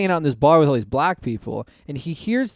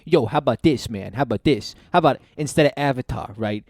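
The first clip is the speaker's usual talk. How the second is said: put-on Hispanic accent; 5 semitones lower than usual. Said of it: "Why are you doing a Hispanic voice?".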